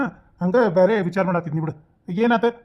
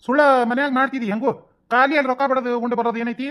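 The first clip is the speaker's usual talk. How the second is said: higher-pitched objection; protesting; 4 semitones higher than usual. Acted. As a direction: argue against it with questioning emphasis. Husband objecting to paying to eat out. (ತಕರಾರಿನ ಏರು ಧ್ವನಿ)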